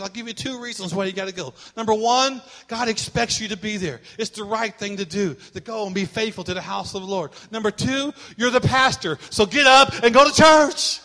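building to a loud mock order; the mother ends it with a loud snap; mother's punchline. Mother orders pastor son.

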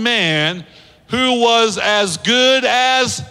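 drawn-out lead-in. Shown as a demonstration. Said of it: "let's say it together".

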